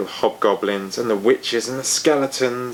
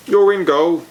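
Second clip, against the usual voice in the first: a louder, higher order; bossy teammate; 7 semitones higher, 6 dB louder than usual. A narrator's reading. A teammate bossing Fergal into goal, bossily. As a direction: tell him where to play.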